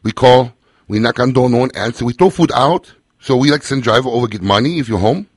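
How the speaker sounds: lightly put-on Asian American accent, broken English. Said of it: "Asian American accent".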